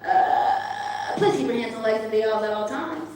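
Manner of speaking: fast pilot announcement, a hint of a pop star. Impression of a pop singer making a pilot's announcement. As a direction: rattle off the cabin announcement like a pop star pilot.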